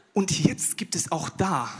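slow conspiratorial whisper. Real, not acted. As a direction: lean in and whisper the setup. Conspiratorial lead-in to punchline. (langsames, verschwörerisches Flüstern)

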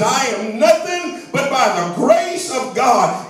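a preacher's shout, voicing Paul; proclaiming Paul. Preacher voicing Paul to the congregation, proclaiming with a shout. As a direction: shout it out as Paul's confession.

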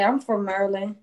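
"Maryland" pronounced with care, the proper way; neat, non-slang "I'm from Maryland"; proper pronunciation. Shown as a demonstration. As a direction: demonstrate talking proper on "Maryland". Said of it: "I talk proper".

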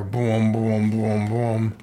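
low, drawn-out booming noise; imitated booms. Podcaster voicing the comic's sound effect, low imitated booms. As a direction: boom it out low and even.

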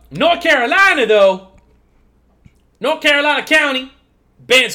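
hammed-up backwoods American accent; put-on country accent. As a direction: rant in a put-on rural TikTok accent. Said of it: "gonna start doing that accent more".

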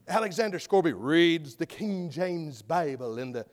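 low, measured, lightly attempted English accent. Preacher mimicking a Bible-recording reader, attempted English accent. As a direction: try an English narrator's accent, not quite convincingly. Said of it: "I can't do an English accent like that".

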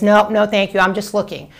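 a mock visitor politely pushing the agent away; polite brush-off. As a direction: act out a buyer walling off the agent. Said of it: "puts that wall up and says".

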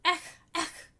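mocking exclamation. A narrator's reading. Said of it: "exclaimed Joseph".

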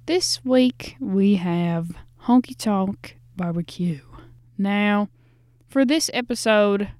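put-on a light, slowed southern accent drawling the intro; hosting the barbecue episode in a hint of a southern accent. Podcast host introduces Honky Tonk Barbecue in a light southern accent. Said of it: "I think it's only fitting if I do this in a southern accent".

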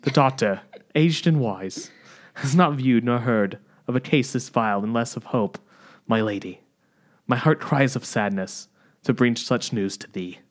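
hammed-up, stagey Australian delivery; unintended Australian accent. William reporting the doctor's verdict to Margaret, accidental Australian accent. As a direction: declaim old-time verse with an Australian slip. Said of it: "I don't know why this is Australian".

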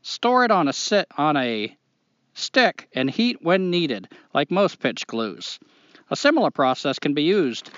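put-on reading a letter in a Maine accent. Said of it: "do the whole thing in a Maine accent".

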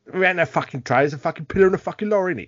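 a rowdy, hammed-up Cockney lad; mock Cockney. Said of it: "I'm a Cockney Transformer".

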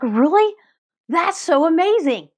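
high, delighted, stretched out amazing; light up with joy for them; excited. Pretend. Host reacting to listener's news, thrilled and excited. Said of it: "I'm so excited for you".

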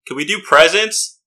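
mild yell with rising question; yelled from crowd. Acted. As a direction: call it out from the crowd, lightly. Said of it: "I'm gonna yell from the crowd".

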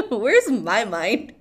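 loud, cracking up at own slip; high bursts of laughter between loud words; real laughing fit. Real, not acted. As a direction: talk through helpless laughter.

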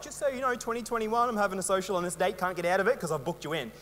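lightly voiced mum laying down the date; mum's bossy reminder. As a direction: imitate mum booking you in, no way out. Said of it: "'cause she would tell you".

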